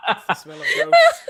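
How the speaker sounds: imitated deadpan line. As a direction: repeat it drily, like a doctor staring ahead. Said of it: "Just fucking deadpan staring ahead".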